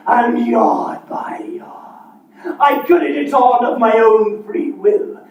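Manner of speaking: ghostly Marley voice; booming voice of a dead partner; playing both parts. Marley's ghost speaks of chains.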